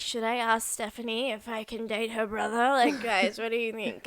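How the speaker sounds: lightly voiced tipsy party girl; hint of a giddy drunk girl. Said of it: "perfect, like, white drunk girl voice".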